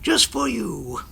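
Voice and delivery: slow, then squeak up for the last words; a hint of an animated car character; talking car voice. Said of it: "Could I do the car voice for Christian?".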